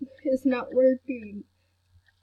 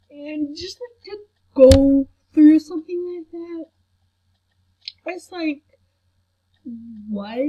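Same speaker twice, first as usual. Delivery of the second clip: crying; 4 semitones higher, 5 dB louder than usual. Real, not acted. Scared, tearful.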